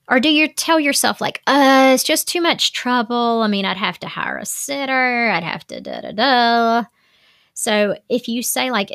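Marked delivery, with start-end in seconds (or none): 1.5-6.8 mock whiny, dragged-out excuse; imitating someone talking themselves out of it; reluctant excuse. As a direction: grumble it like too much bother. Voicing a reluctant excuse to oneself.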